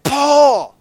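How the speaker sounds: loud, high shout of the name; calling out. Retold or imitated. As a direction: call out to Paul in warning. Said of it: "He's like".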